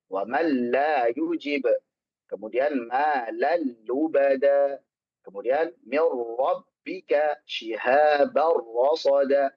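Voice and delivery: measured tajwid demonstration; slow Quran recitation. Shown as a demonstration. Teacher reciting examples slowly for the class. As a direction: recite each word slowly and carefully. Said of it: "Termasuk idgham bila gunnah".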